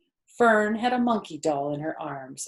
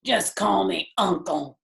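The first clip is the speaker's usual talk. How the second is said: hearty big pig, a touch louder; full, jolly self-introduction; a lightly voiced brash pig; 5 dB louder than usual. A narrator's reading. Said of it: "he said in a big, hearty voice".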